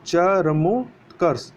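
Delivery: चरमोत्कर्ष spelled out slowly; slow model word. Shown as a demonstration. Teacher slowly models the correct चरमोत्कर्ष. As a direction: stretch चरमोत्कर्ष syllable by syllable. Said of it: "इस प्रकार से लिखा जाता है".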